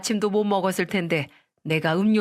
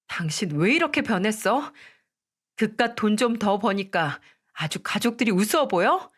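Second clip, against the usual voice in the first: indignant anger; 3 semitones higher than usual. Acted. Wife fights husband.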